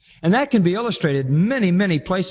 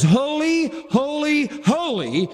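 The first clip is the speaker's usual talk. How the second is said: emphatic holy; 10 semitones higher, slower than usual. Shown as a demonstration. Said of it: "when the Bible says".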